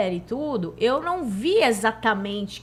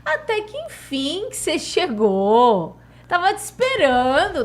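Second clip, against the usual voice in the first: Jesus's teasing welcome; 6 semitones higher, 4 dB louder, slower than usual. Retold or imitated. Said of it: "ele falou bem assim".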